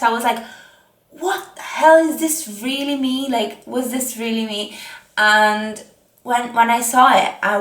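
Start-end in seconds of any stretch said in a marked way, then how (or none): 1.1-4.8 mild retold disbelief, high burst at the start; retold shock. Telling viewers her reaction to her own progress pictures, mildly shocked. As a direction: re-enact being shocked, starting high then easing. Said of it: "I was so shocked".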